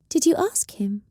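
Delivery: high, breathy whispered question; a whispered demand from a witch. Acted. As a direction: hush it out, hard and urgent. Tense whispered interrogation.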